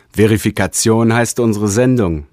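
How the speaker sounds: a touch of lofty grandeur; slight pathos. Acted. Realigator answers his Dimensor with light pathos. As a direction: proclaim it a little grandly. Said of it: "mit leichtem Pathos".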